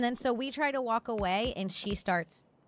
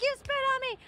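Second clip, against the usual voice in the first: very high-pitched indignant imitation; mock outrage; 14 semitones higher, much faster than usual. Woman mimicking the spat-on passenger, mock outrage. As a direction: imitate her squealed accusation. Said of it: "then she starts yelling".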